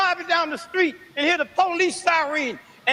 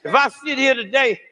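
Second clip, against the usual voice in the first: preaching at full force; 4 semitones lower than usual. Acted. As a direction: lean hard into the sermon, hammering each line.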